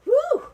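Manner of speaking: a loud, high whoop of delight; excited whoop. Real, not acted. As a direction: let out a real whoop of joy. Excited cheer at auction result.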